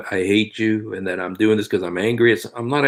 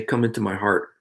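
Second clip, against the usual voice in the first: prayer words; 5 dB quieter, much faster than usual. Shown as a demonstration.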